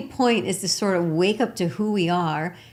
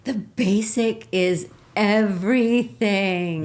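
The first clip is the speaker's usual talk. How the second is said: laughing; 3 semitones higher, 6 dB louder, slower than usual. Real, not acted. Laughing agreement with S0.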